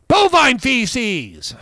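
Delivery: high, slow, prim put-on voice; mock-refined. Host swapping a swear word, prim put-on voice. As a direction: say it slowly with fake politeness. Joking polite substitute phrase.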